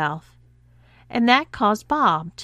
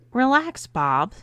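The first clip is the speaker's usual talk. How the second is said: sharp raised snap; a curt higher snap; snapped; 6 semitones higher than usual. A narrator's reading. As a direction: cut him off sharply. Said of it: "snapped Adam".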